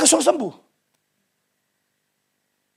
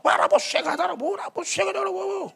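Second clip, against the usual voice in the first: high, rapid ecstatic babble; mock burst of tongues; imitated speaking in tongues; 10 semitones higher, 4 dB quieter than usual. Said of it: "coba bahasa roh".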